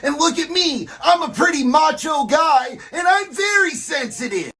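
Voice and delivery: hammed-up sensitive guy. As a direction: overplay the gentle macho mentor. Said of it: "talk like your real self".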